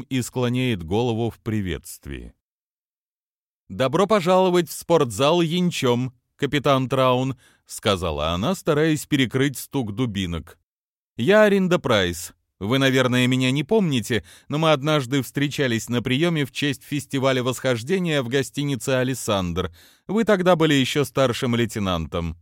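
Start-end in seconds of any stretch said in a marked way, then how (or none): 3.7-7.4 cartoon princess voice. Narrator voices Price, higher. 11.2-22.4 put-on high bright young woman voice; sweet eager socialite, pitched up; cartoon princess. Narrator voices Price.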